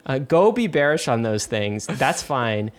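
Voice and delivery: cocky, punchy defiance; spicy defiance. Real, not acted. Host mocking crypto bears, spicy and defiant. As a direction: dare them to be bearish, then shrug it off. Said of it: "Oh, I love Spicy Ryan".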